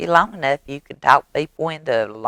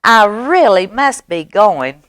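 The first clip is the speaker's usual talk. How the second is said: high, brisk little mouse voice; departing mouse; 5 semitones higher, 4 dB louder, slower than usual. Acted. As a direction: excuse yourself in a raised mouse voice. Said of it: "Mouse says".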